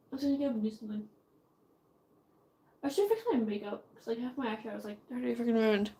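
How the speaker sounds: sleepy, fading mumble; drowsy, drifting into a whisper; nodding off. Real, not acted. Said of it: "I am half asleep right now".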